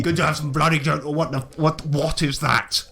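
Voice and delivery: hearty, swearing colonial gent greeting the party; a lightly voiced jolly British explorer; bluff British adventurer. Willie greets the newcomers, a lightly voiced hearty British gent. Willie asks about the King.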